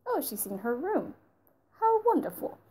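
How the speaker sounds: put-on airy English accent, leaping high on wonderful; a snooty English accent, mocking the scene. Reviewer mocks the dull room scene in a snooty English accent. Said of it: "I'm sorry for the English accent".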